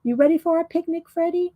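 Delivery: a quick, breezy try at a British mum; British accent. Pretend. Janet Nash inviting Freddie on a picnic, light British accent. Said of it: "I can do a British accent".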